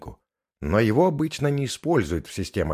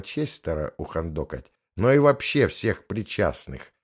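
stern, clipped. Acted. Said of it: "жёстко отчеканила Гаяна".

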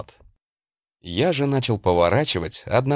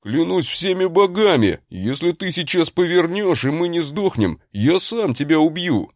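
yelling with pauses; 8 semitones higher than usual. Acted. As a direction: shout it in panicked bursts. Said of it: "Орал брат с паузами".

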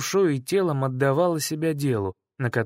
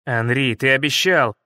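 mental shout; 3 semitones lower, 5 dB louder than usual. Acted. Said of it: "мысленно заорал я".

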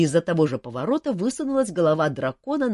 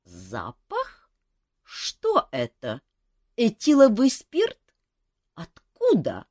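slow, sniffing, then high and loud; a dragon smelling spirits, amazed; surprised dragon; 7 semitones higher, 6 dB louder, much slower than usual. Acted. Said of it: "удивлённо вопросила".

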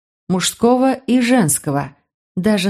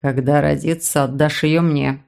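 demanding man; 4 semitones lower than usual. Acted. Brother demanding the baby.

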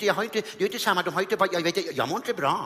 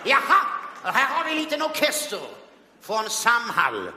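Sten Broman voice. Retold or imitated. Comedian as Sten Broman mocking the orchestra, haughty. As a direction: look down on the band.

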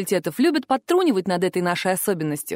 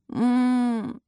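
drawn-out mumbled hum; weary wordless moan.

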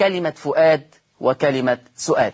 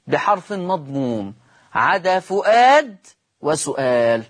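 measured, phrase-by-phrase classroom dictation; slow dictation; slower than usual. Shown as a demonstration. Teacher repeats the rule for students writing along, slow dictation. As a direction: dictate slowly, pausing after each phrase.

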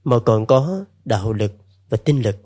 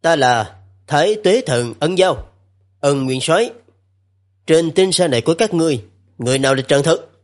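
booming thunder voice; 3 semitones higher than usual. Acted. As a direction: voice like rolling thunder. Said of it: "cái giọng nói như sấm vang".

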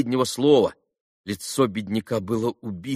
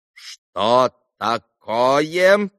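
surprised; 4 semitones higher, 5 dB louder, much slower than usual. A narrator's reading. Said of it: "удивлённо".

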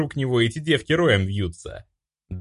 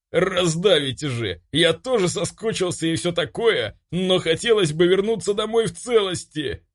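higher, lightly voiced Vlad protesting the hug; squeezed young man; 7 semitones higher than usual. Vlad squeezed in a hug, protesting, higher and lightly voiced. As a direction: complain while being crushed, half joking.

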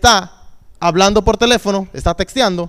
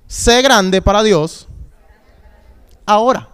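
lento y enfático; slower than usual. Shown as a demonstration. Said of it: "¿Lo dice conmigo?".

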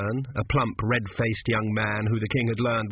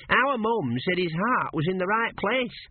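put-on higher, slow, innocent young lad; earnest apprentice; 8 semitones higher, slower than usual. A narrator's reading. Apprentice telling his master what mum said, higher and slow. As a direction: offer it in simple trust.

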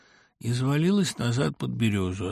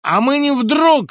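much higher, louder, slow retort; angry retort with a louder, slower, higher voice; angry shout; 11 dB louder, slower than usual. A narrator's reading. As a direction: shout him down, offended. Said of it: "крикнул злобный".

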